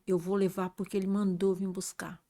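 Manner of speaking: a whispered, quiet evil voice; voice of Satan. Retold or imitated. Satan answering the preacher, soft menacing whisper. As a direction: let the devil hiss it softly. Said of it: "eu ouvi uma voz que falou".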